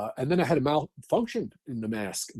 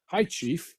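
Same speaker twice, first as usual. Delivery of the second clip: a slightly raised, light "greeting the boss" voice; higher-pitched quick greeting, imitated; imitating himself greeting chief; 6 semitones higher than usual. Firefighter greets his chief at a fire, imitated nervous greeting. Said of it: "like that".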